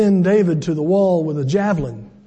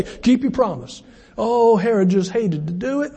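sarcastic. Acted. Sarcastic mock defense of Herod.

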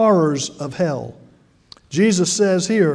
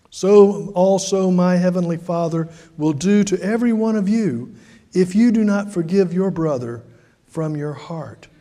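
ordinary talk, nothing marked

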